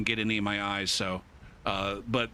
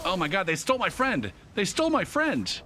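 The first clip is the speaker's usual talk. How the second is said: put-on panicked kid; 6 semitones higher than usual. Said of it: "and he's like".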